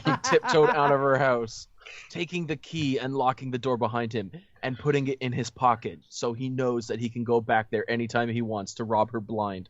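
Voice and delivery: measured read-aloud storytelling voice; story narration. A narrator's reading. Host reading the story to friends, narration.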